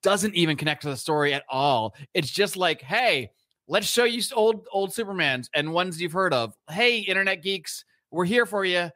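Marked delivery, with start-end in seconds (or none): 2.8-8.9 higher-pitched mock sales pitch; mock pandering. Filmmakers pandering to internet geeks, mock eager pitch.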